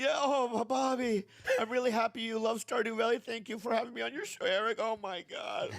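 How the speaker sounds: high-pitched, gushing fan-mail read; put-on reading voice. Host reads a thank-you note to the audience, high affected voice.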